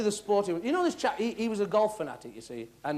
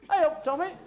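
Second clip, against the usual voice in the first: higher, louder hailing call; mystery voice calling; 7 semitones higher, 5 dB louder than usual. Acted. Horse calls to Tommy behind his back, hailing. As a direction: hail him from a distance. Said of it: "he heard this voice say".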